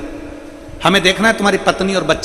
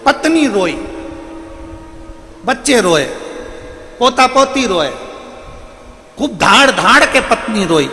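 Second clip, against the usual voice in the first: mournful telling; 7 semitones higher than usual. A narrator's reading. Narrating the family weeping.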